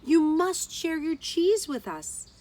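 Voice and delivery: high, loud and fast pleading; starving friends begging Geraldine for cheese, high and loud; desperate plea. A narrator's reading. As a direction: demand help in desperation. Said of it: "They were desperate".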